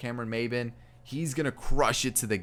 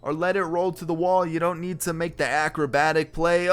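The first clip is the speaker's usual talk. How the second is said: exasperated; 5 semitones higher, 4 dB louder than usual. Real, not acted. Frustrated at fielder's misplay.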